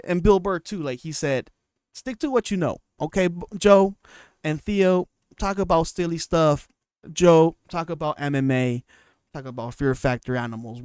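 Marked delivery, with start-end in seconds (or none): 1.9-10.8 loud, emphatic telling-off; imitated blunt admonishment; mock scolding. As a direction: lecture them firmly as another comedian would. Acting out comedian scolding the podcasters.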